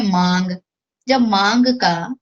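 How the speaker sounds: मांग with the आ nasalised, air through nose and mouth; nasal vowel demo. Shown as a demonstration. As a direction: let मांग ring through the nose, teacher-style. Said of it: "मांग शब्द का जब मैं उच्चारण कर रही हूँ". (मांग को नाक और मुंह दोनों से बोलकर दिखाना)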